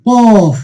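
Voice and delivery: কফ with a full, heavy opening consonant; heavy letter name. Shown as a demonstration. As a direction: say কফ long and heavy, falling at the end. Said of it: "একটু উঁচু মোটা করে পড়তে হবে".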